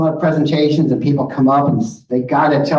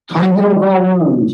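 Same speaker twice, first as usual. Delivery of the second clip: slow, loud, pitched-up recital of a cliché; mock platitude; 5 semitones higher, 4 dB louder, slower than usual. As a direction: lay the saying out with gentle irony. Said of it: "Next slide".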